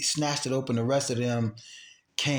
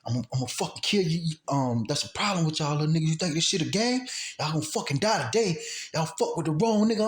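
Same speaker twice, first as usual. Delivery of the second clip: retold gunman's threat, pitch raised; heated mock threat, climbing higher; angry threat; 5 semitones higher than usual. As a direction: imitate an angry man threatening to kill. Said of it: "he was getting so angry".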